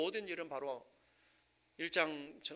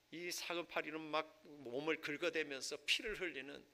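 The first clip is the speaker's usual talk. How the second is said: ordinary talk, nothing marked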